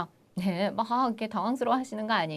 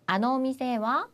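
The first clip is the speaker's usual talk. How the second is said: slow spaced-out answer; 2 semitones higher, much slower than usual. Shown as a demonstration. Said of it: "뭐라고 하면 될까요".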